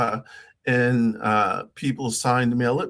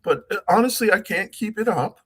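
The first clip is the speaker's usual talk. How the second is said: moderately raised pitch; higher voice, kept up with effort; higher trained voice; 4 semitones higher, faster than usual. Shown as a demonstration. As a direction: hold the lifted practice register. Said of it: "talk like this all the time".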